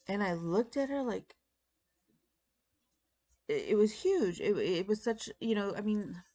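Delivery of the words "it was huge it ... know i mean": usual speaking voice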